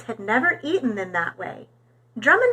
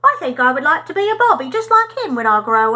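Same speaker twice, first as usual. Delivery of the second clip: put-on English accent; 3 semitones higher, 6 dB louder, faster than usual. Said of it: "said in his different accent".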